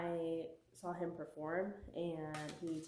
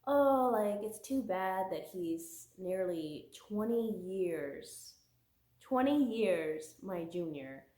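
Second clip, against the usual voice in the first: quoting the heroine. Retold or imitated. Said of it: "she says".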